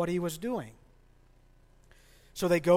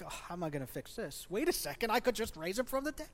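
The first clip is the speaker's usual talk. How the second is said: mock sudden realization; 6 semitones higher, faster than usual. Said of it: "Be like".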